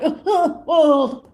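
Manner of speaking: imitating a stranger freaking out with a laugh; mock freak-out laugh. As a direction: giggle out the oh's like a startled stranger.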